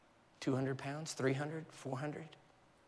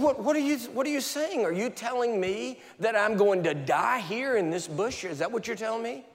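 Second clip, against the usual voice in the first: much higher, loud panicked questions; alarmed questioning; 6 semitones higher, 5 dB louder than usual. Retold or imitated. Preacher retelling panicked questions to God, high and loud. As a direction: plead in rising alarm.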